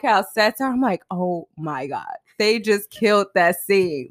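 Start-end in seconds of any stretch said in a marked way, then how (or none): 1.1-4.1 slow, hushed amazement; retold awe. Co-host re-enacts watching actors, slow awed delivery. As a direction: draw it out as if awestruck. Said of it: "so in awe of their acting".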